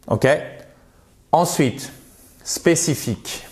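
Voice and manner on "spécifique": SPÉCIFIQUE said the French way, even syllables; French pronunciation. Shown as a demonstration. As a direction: say SPÉCIFIQUE with French vowels and no English stress. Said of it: "si vous dites spécifique".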